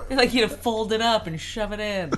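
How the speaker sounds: laughing while joking. Real, not acted. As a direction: say it cracking up. Laughing joke.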